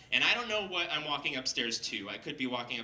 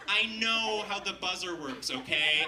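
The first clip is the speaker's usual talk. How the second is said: higher, sassy comeback; retold sassy retort, leaning on "okay"; 6 semitones higher, 5 dB louder than usual. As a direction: snap back with mock indignation. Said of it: "I was so sassy with this guy".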